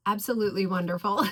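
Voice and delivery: nearly crying with delight; emotional. Real, not acted. Moved by the perfume while praising it, emotional. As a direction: voice catching with real emotion, quickly. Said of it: "I get emotional about it".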